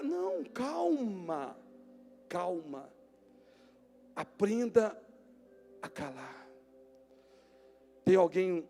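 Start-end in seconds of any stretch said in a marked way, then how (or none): 0.0-2.9 slow, softening reassurance; calm them down gently; soothing calm. Acted. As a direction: tell the angry brother to breathe. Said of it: "calming the listener".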